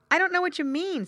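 put-on high, loud puzzled child voice. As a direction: protest like a confused little boy. Puzzled child answers angel.

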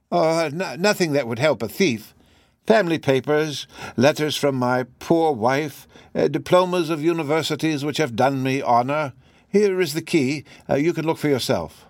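lightly voiced professor, halting and musing; hesitant professor. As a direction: offer a theory with small hesitations, lightly in character. Voices the professor answering Holmes.

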